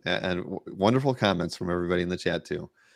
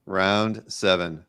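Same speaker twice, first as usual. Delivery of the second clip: slow drawn-out announcement; 2 semitones lower, much slower than usual. Real, not acted. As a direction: round seven drawn out slowly. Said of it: "slowed repeat".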